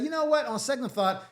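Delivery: high sing-song turn; mock airy take-back; sudden change of mind. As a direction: flip the mood with a lilting pitch jump. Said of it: "And then she said".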